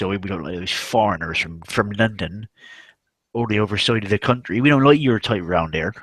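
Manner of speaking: imitating a rural West Country farmer accent; Devon farmer accent. Farmer rudely rejecting a London woman, mock Devon accent. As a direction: mimic an old Devon local rejecting outsiders. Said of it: "old farmers".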